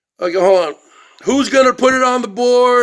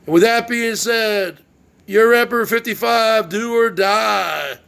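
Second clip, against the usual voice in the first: announcer sign-off. Acted. Vlogger signing off his show, shouted ring-announcer promo. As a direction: bellow the big self-intro like a ring announcer.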